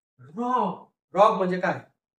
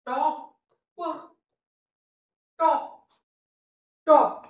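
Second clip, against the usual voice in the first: emphatic modelling; 9 semitones higher, much slower than usual. Shown as a demonstration. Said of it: "teacher models the word".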